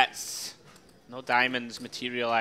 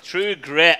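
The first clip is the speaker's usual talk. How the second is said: loud eureka shout of the title; excited; 4 semitones higher, 11 dB louder than usual. Real, not acted. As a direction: blurt it out as it clicks. Remembering film title.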